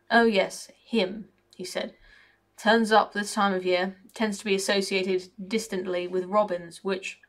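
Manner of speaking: a lightly voiced cocky, grumbling raven; mildly put-on raven voice with a working-class grumble. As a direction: moan like a sour bird who feels left out.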